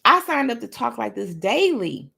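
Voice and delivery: punchy, self-assured attitude. Shown as a demonstration. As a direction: declare it with sass. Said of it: "say it with attitude".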